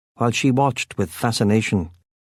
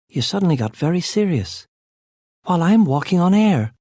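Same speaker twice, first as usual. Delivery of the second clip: higher, mock-posh preppy accent, teasing herself; silly preppy accent; 9 semitones higher than usual. A narrator's reading. Kit teasing herself to the serious narrator in preppy accent. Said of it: "mocking herself in a silly, preppy accent".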